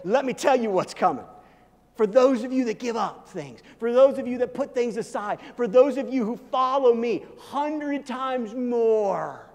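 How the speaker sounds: Jesus delighting in the reward; excited promise. Acted. Jesus telling followers their reward, excited and slowing at the end. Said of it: "It's like Jesus goes".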